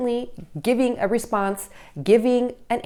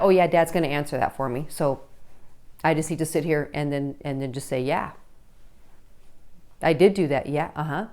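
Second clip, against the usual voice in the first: put-on passive teen; 7 semitones lower, 5 dB quieter than usual. Passive teen voiced by parent.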